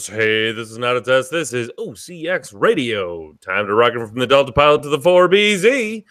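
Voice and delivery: show-opening announcer building to a big finish; radio announcer. Pretend.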